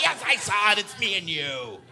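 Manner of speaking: high, loud yell easing down; ecstatic self-reply. Acted. Driver answering himself alone, ecstatic yelling. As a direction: shout back in shared glee, stretching the end.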